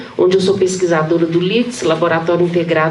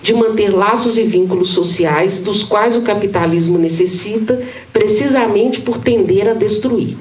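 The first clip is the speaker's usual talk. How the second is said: measured academic read-aloud, phrase by phrase; formal reading aloud; 2 semitones higher than usual. Acted. Professor presenting titled excerpts on the common, formal reading aloud. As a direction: read a dense theory text evenly to an audience.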